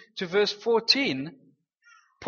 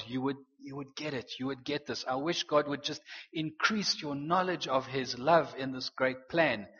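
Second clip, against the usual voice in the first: hushed, heartfelt plea, pitched low; celebrating in prayer; 4 semitones lower, 4 dB quieter than usual. Acted. Preacher voices Paul praying for believers, tender and low. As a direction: softly pray it for them, understated. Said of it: "celebrating something and saying".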